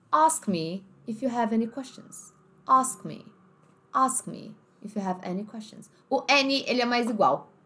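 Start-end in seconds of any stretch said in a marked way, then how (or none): 0.1-5.9 British accent. Shown as a demonstration. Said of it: "Inglês mais britânico".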